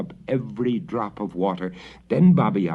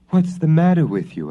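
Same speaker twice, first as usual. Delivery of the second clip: father asking; 8 semitones higher, 6 dB louder than usual. A narrator's reading. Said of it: "asked her father".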